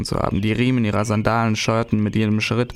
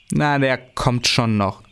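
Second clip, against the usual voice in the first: put-on slow, musing boy; thoughtful; slower than usual. Tim musing about his brother, slow. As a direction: think it over aloud, slowly. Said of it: "meinte Tim nachdenklich".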